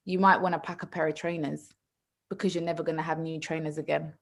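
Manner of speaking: low-key imitation of a father's calm warning; scarily calm dad. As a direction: deliver the threat softly and evenly. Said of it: "he's so calm, it's scary".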